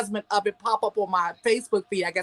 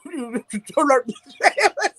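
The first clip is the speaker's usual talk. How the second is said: mock slow turn; 2 semitones higher, much slower than usual. Shown as a demonstration. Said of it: "she would turn like this".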